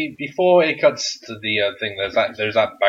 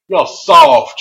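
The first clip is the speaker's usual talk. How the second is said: mock shout; 14 semitones higher, 11 dB louder than usual. Byron Saxton shouting at JBL, a taunt.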